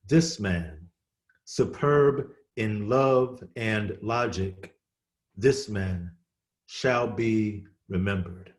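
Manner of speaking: slow, measured poetry reading with deliberate pauses; poem recitation. Acted. Poet reading Hayden's tribute to Frederick Douglass, measured recitation.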